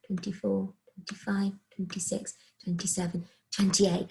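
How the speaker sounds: breathless counting; winded from counting so much; out of breath. Real, not acted. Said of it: "I'm out of breath trying to count".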